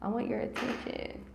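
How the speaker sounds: soft, lightly voiced dog; voicing the dog. Host voices her husky demanding attention, softly and lightly. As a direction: give the husky a quiet put-on voice. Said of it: "My dog is like".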